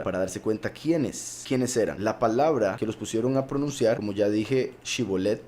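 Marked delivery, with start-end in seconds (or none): 4.8-5.4 Shibolet said with a clear sh sound, shi-bo-let. Shown as a demonstration. Preacher teaching the right Hebrew sound, Shibolet with sh. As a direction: say Shibolet starting with sh. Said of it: "se pronuncia Shibolet".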